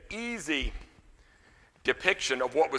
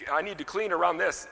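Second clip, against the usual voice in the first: lightly imitated Polish janitor; slightly high mock-Polish accent; a hint of a Polish accent; 4 semitones higher than usual. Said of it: "in his Polish accent".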